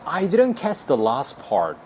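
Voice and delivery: very slow, every word spaced; teacher modelling slowly; slow demo. Shown as a demonstration. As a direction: spell it out for learners. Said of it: "이렇게 하면 돼요".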